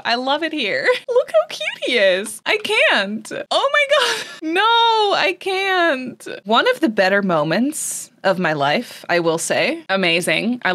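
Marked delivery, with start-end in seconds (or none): 1.1-6.3 much higher giddy squeals with laughs; squealing overwhelmed. Real, not acted. Player gushing over her cute cat, high giddy squeals. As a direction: gush like it's too cute to bear.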